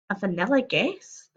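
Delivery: "A vanilla guest?" asked in disbelief; puzzled. Real, not acted. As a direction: question "vanilla guest" incredulously. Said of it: "That's what it says".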